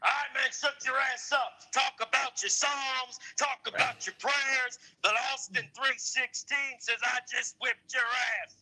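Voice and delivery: hammed-up wrestling champion speech; Stone Cold Steve Austin. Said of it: "Do your best Stone Cold three sixteen speech".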